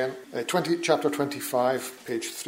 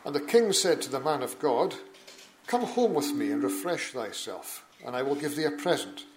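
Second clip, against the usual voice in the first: measured, solemn Bible reading; formal public reading from the pulpit; scripture reading. Acted. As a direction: read the King James text with steady gravity. Reads scripture aloud in church.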